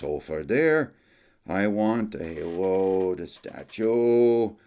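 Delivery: put-on storyteller Jacques with a lightly held Acadian French accent. Jacques tells tourists about his brother, Acadian French accent. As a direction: spin the yarn as a folksy Acadian uncle, French accent.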